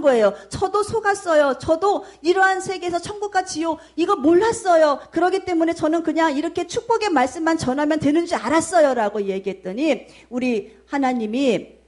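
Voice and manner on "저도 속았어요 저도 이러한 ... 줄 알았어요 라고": high, pushed cry of "I was deceived too"; desperate pleading. Retold or imitated. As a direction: plead your case, half shouting. Pastor pleading before God's judgment. (높고 다급하게 외치듯 변명)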